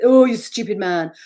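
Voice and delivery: loud sneering inner voice; nasty inner critic. Retold or imitated. The inner critic sneering at James, loud and scornful. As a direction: spit it out with contempt. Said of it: "and not you, James".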